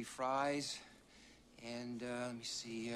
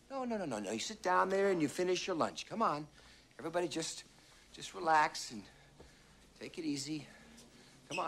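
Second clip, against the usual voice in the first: insistent urging; 7 semitones higher than usual. Acted. Ordering frightened diners to stay seated.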